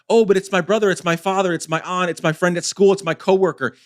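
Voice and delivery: pleading list, lightly mocked; mock excuse-making. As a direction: imitate people listing their excuses. Voicing people who make excuses.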